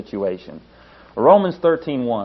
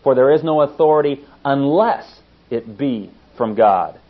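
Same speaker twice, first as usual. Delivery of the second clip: "unless" pressed hard in the verse; stress on unless; 2 semitones higher, 5 dB louder than usual. Shown as a demonstration. Preacher rereads the verse to the congregation, stressing "unless". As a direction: lean on the word "unless". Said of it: "puts that emphasis on it".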